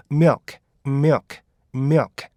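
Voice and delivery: milk run together as one syllable, short vowel, clear final k. Shown as a demonstration. Teacher models how milk is pronounced, joined-up pronunciation. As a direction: say "milk" as a quick "myuk" with a crisp k. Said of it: "이렇게 발음해 주셔야 되고요".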